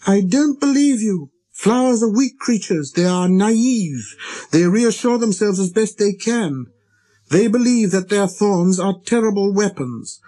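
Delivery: put-on high, indignant child-prince voice; little prince, resentful. A narrator's reading. Little prince defending flowers to the pilot, resentful. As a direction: flash back in a high little voice. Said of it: "with a kind of resentment".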